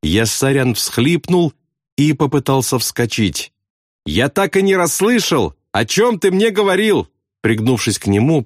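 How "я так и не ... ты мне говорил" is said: high voice calling over noise. A narrator's reading. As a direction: call it across in a high voice. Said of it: "прокричал Аафрей".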